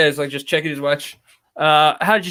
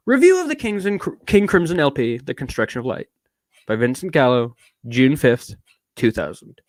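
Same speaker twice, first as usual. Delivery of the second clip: put-on British accent; 2 semitones lower than usual. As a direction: read it in a posh English accent. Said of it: "I'm doing so much British".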